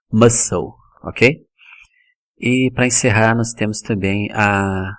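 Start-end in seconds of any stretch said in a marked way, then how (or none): 0.1-0.7 "muscle" as MUSS-ul, no k; correct English "muscle". Shown as a demonstration. Teacher modelling "muscle" without the c sound. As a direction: silent c in "muscle". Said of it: "o pessoal fala de diversas formas".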